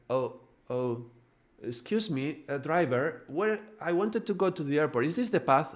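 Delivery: blink awake and ask, puzzled and polite; groggy confused passenger. Retold or imitated. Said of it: "the soul wakes up and he's like".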